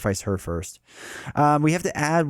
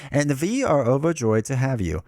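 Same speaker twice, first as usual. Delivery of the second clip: put-on lightly German-accented matron; 3 dB louder than usual. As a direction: welcome them with a touch of German. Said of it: "I assume this is the German woman".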